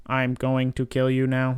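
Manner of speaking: slow, even droid monotone; robot voice. Retold or imitated. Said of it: "like, robotic".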